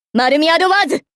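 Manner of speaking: battle cry building to the end; attack call. Acted. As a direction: pitch climbing through the weapon name.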